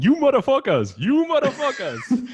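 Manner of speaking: storming the government building, hammed-up laughing yell; movie homeboy yelling. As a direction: bust in screaming like a movie character. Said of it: "I'm the homeboy from next Friday".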